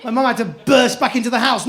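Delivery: usual speaking voice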